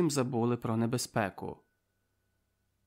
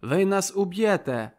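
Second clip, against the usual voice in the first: loud, higher, defiant cry; the prisoner defying his captors, shouting louder; 5 semitones higher, 5 dB louder than usual. A narrator's reading. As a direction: shout over the interruption. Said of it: "ще сильнішим голосом кричить".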